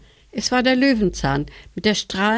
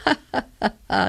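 hohes, überhebliches Ha ha ha; überhebliches Lachen; 4 semitones higher, faster than usual. A narrator's reading. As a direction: lach von oben herab, hoch und spöttisch. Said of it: "lachte die Chrysantheme. Sie klang sehr überheblich". (Chrysantheme lacht die anderen überheblich aus, hoch)

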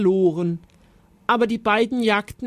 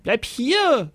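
high, urgent knight's call; storybook shout, pitched up; shouting after someone; 5 semitones higher, 4 dB louder, slower than usual. A narrator's reading. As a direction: yell after a departing foe. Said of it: "brüllte der Ritter ihm nach".

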